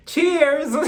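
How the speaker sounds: a high, loud toast that breaks into laughter; giggly toast; laughing cheers. Acted. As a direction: raise the glass and crack up.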